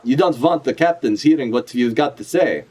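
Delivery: lightly put-on character voice; Ivankov voice. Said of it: "that's how she talks".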